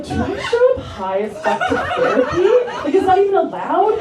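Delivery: very high-pitched stoned worry; hammed-up high, anxious disbelief; mock anxious fretting. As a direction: squeak out the panicked question for laughs. Stoned comic fretting about therapy.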